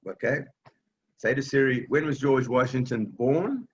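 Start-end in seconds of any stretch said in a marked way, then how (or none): 1.9-3.7 clear spoken command. Shown as a demonstration. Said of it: "Just like that, in plain English".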